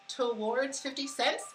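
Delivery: "Towards fifty cents" said slowly, each word spelled out; slow careful English. Shown as a demonstration. Retrying a hard phrase for viewers, slow and careful. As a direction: ease over "Towards" with care. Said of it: "That's a hard word to say in English".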